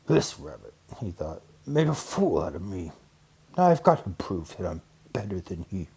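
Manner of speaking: lightly voiced sulky bear; sulking bear. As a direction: mutter in wounded pride.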